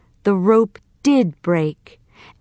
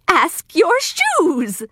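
smiling; 9 semitones higher, slower than usual. Acted. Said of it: "smiled the good witch".

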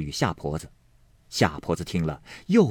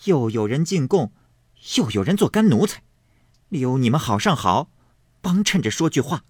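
put-on sarcastic girl's voice, higher; a lightly acted jeer ending in a spit; mocking girl; 7 semitones higher than usual. A narrator's reading. Fangguan mocks back, ends spitting. (尖酸挖苦的小丫头)

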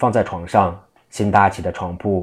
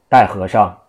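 loud official call to bring in the monk; gavel-bang summons; 5 dB louder than usual. Acted. Prefect slamming the gavel, calling for the monk loudly. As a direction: call him into court with a firm shout.

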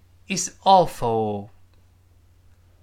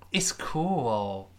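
whisper; 5 dB quieter than usual. Acted. Answer line whispered.

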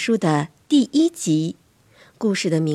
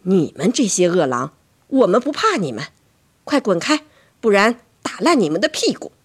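mildly fierce telling-off; a touch of angry defiance; scolding mother; 3 dB louder than usual. Acted. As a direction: scold the intruders firmly.

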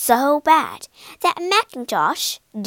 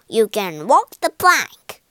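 sneering; 2 semitones lower, 4 dB louder than usual. Acted. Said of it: "said Spike with a sneer".

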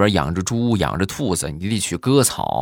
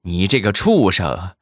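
imitating an old woman's scolding, pitch climbing higher; mock furious scolding; 5 semitones higher, 4 dB louder than usual. Grandma scolding the boy who broke the tablet, mock furious. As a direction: scold the boy, rising to a threat.

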